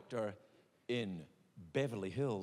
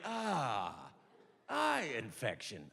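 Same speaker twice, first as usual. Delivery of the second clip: doctor's diagnosis; 5 semitones lower, much slower than usual. Acted. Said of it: "So he looked at my eye, and he went".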